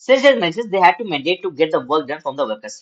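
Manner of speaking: slow, measured reading aloud to students; slow classroom read-aloud; slow textbook reading. Acted. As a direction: read each phrase out deliberately for the class.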